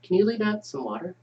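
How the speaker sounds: put-on child voice. Child voice in read script.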